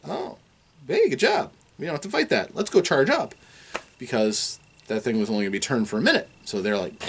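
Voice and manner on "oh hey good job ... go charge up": high, chirpy mock relief; relieved cheer. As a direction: squeak out a pleased well done.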